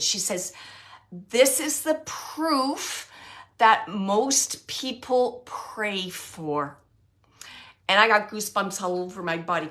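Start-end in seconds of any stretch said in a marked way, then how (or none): 1.1-6.8 very slow, weighty and earnest; solemn and sincere. Retold or imitated. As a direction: deliver it slowly like a sacred truth. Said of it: "she's saying it just like that".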